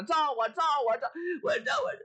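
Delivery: climbing to a very high shrill taunt; shrill goading. Acted. Wife goads the priest with the mirror, shrill rising taunt. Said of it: "撒起泼来了".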